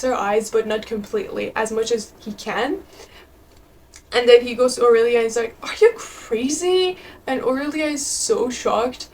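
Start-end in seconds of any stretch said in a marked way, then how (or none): 5.6-7.0 angry retort. Retold or imitated. Husband confronts Aurelia angrily.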